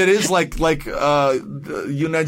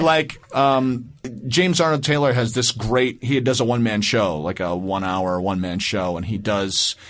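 ordinary delivery

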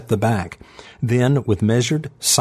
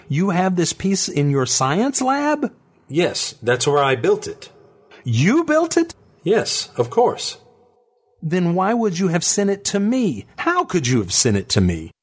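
high, astonished questions; disbelieving, voice rising; incredulous woman; 9 semitones higher than usual. A narrator's reading. Megan incredulous.

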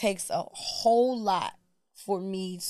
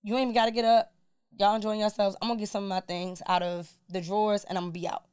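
calm cool tone. Retold or imitated. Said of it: "I'm like".

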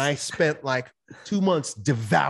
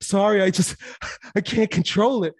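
mock breathless apology broken by a laugh; lightly acted helpless laughing apology; apologizing through laughter; 4 semitones higher than usual. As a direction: act out trying to talk through giggles. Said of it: "trying to apologize and catch my breath".

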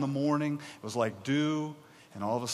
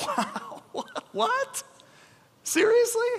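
mock disbelief; 3 dB louder, much slower than usual. Preacher mocks Israelites' complaint.

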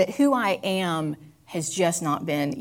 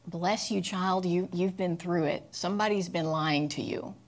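tender comfort; 4 dB quieter than usual. Acted. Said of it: "I just love on that scared little Becky".

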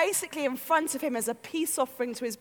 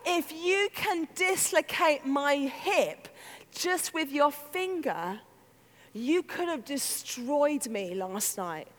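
stunned realisation; 5 dB quieter, slower than usual. Acted. Jacob's slow realisation of God.

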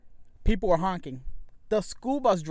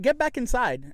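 retold curt order, higher pitch; giving attitude; 5 semitones higher, 3 dB louder than usual. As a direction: send him off with attitude. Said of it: "I gave him an attitude".

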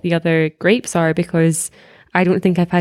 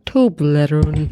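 slow Scottish "Toblerone"; long Scottish vowels on "Toblerone"; Scottish accent; 3 semitones lower, much slower than usual. Shown as a demonstration. Comparing accents with friends, slow Scottish "Toblerone". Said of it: "And you say".

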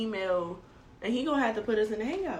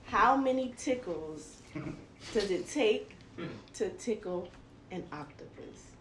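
slow riddle setup; 3 semitones lower, 9 dB quieter, slower than usual. Acted.

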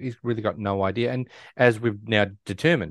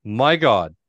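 slow, louder mock amazement; retold shock; 5 dB louder, much slower than usual. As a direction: draw it out as an astonished viewer. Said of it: "And we're like".

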